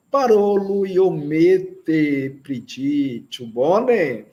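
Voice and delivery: slow, clear reading for the class to repeat; slow repetition. Shown as a demonstration. Teacher reading the dialogue again for students to repeat, slowly. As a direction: read it slowly so students can follow along. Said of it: "Vamos repetir".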